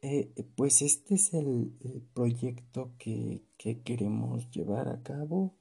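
slow, hesitant unsure delivery; timid, halting voice; insecure. Shown as a demonstration. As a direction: falter through it nervously. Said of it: "mostrar inseguridad".

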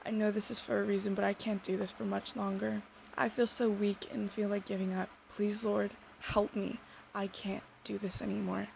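a hint of sobbing, understated; tearful prayer. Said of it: "sobbing, broken, defeated".

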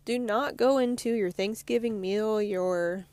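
talking around a coffee sip; words cut by sipping coffee; while sipping a drink. Real, not acted. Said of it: "sorry, I'm drinking coffee".

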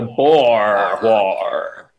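slow Boston "the Boer War"; Boston accent. Pretend. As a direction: drawl "the Boer War" as "pah waw". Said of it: "no one's saying the board war".

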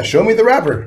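high, put-on voice of the offended artist; hammed-up diva rapper; mock rapper. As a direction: squeal it like a spoiled star. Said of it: "He, yeah".

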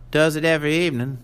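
put-on quick, sharp old country woman. A narrator's reading. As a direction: snap it back like a blunt old farm widow. Old woman voiced in story.

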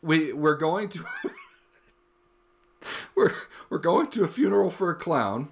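halting, laughter breaking in; trying not to laugh. Real, not acted. Friend setting up a clown funeral joke, fighting laughter. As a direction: fight real giggles while restarting the sentence. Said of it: "I'm trying so hard not to laugh".

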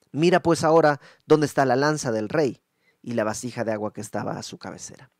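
loud, stern scolding; stern rebuke. Acted. David condemning Abner's men for sleeping, loud and stern. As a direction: condemn them with force.

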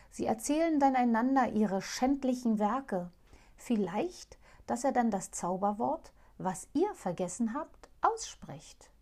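lightly voiced owl princess, hopeful; owl princess urging. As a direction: tell the secret with rising hope. Owl explains the sorcerer.

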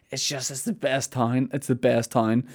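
half-hearted imitation of sobbing; mock sobbing. Broken-down local praising his town to a stranger, mock tearful. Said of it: "just started sobbing".

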